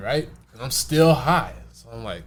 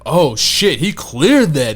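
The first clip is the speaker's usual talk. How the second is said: imitating friends' surprise; 3 semitones higher, 9 dB louder, much slower than usual. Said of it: "they were just like".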